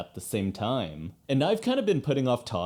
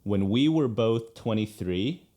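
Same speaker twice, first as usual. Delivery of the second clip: spoken naturally with "we" emphasized; stress on WE. Shown as a demonstration. Coach shows the changed lyric's spoken emphasis, stress on "we". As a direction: say it conversationally, leaning on "we" after an unstressed "When". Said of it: "emphasis is now on the second syllable".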